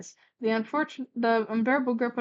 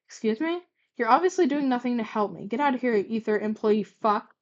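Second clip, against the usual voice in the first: spat; 4 dB louder than usual. Acted. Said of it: "Gladion spat".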